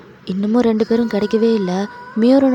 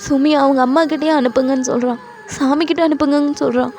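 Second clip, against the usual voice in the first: higher-pitched, upset explaining; distressed, pleading justification; tearful confession; 5 semitones higher than usual. Acted. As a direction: confess helplessly through acted tears. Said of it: "அப்ப நீங்க ரொம்ப அழுவுறீங்க".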